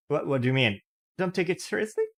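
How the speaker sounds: put-on offended old man snaps at the apology; snapping back. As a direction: throw her words back at her. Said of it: "the man snapped back".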